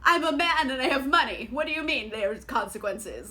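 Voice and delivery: baffled, fast and loud indignation; hammed-up entitled disbelief; mock entitled outrage. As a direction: play a spoiled man shocked at blame. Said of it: "He's like".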